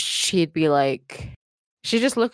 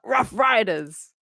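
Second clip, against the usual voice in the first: mock rapper growl; 3 semitones higher, slower than usual. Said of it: "pretend you're DMX".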